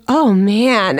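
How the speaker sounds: mock sympathy from a store clerk; snide. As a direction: imitate a snidely pitying onlooker. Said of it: "snide comments".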